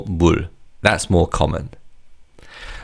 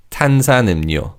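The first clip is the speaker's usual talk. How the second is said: fast model repeat; 3 semitones higher, much faster than usual. Shown as a demonstration. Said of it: "the 리을 in the final syllable changes to 니은".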